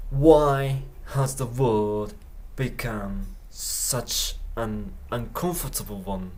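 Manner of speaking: very slow, each word separate; slow repeat. Shown as a demonstration. Teacher repeating the clip for learners, very slow. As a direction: lay the question out slowly. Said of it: "slow repeat".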